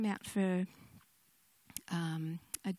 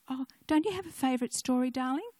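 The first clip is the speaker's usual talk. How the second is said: coaxing grandmother; 4 semitones higher, 4 dB louder, faster than usual. Retold or imitated. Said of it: "and I said".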